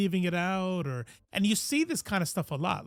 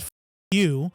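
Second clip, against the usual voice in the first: put-on mad teen; 5 dB louder than usual. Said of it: "I just got so mad".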